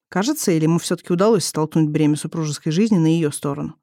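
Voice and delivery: usual speaking voice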